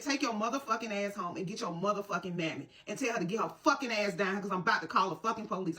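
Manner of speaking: understated angry telling-off, quickening at the end; retold angry tirade. Mother sending the boys home, retold angry warning. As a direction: re-enact laying down the law, not shouted. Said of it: "I said it just like that".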